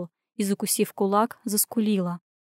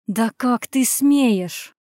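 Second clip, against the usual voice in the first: slow, drawn-out hiss of fury; slow indignant hiss; hissing outrage; much slower than usual. A narrator's reading. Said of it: "зашипела старшая".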